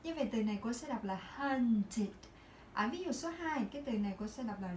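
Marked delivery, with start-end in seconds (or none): 1.4-2.1 "hunted" with ED as an "id" syllable; id ending. Shown as a demonstration. Teacher reading the first example, "hunted" ending in id. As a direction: end "hunted" on "tid". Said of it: "mình sẽ phát âm là id".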